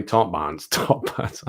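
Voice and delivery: lightly imitated Edinburgh accent. Repeating a comic's catchphrase, mock Edinburgh accent. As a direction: put on a touch of Edinburgh banter. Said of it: "they consider that more Edinburgh area".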